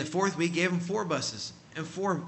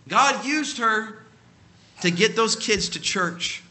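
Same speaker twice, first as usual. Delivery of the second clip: slow emphasis; 6 semitones higher, 6 dB louder, slower than usual. Real, not acted. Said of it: "preacher slows for emphasis".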